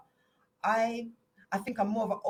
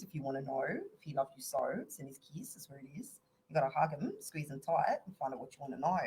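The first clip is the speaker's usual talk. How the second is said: a low Aussie accent, half sung; deep Australian accent. Shown as a demonstration. Fooling people with his deep Australian accent. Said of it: "my Australian accent, right, is so deep".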